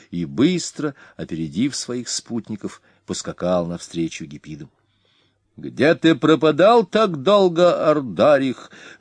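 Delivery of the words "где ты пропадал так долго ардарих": high, slow, harsh shout at the king; a high grating voice stretching пропадал; sharp shrill cry. A narrator's reading. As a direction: call out high and unpleasant, dragging пропадал. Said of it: "резким, высоким, неприятным голосом крикнул".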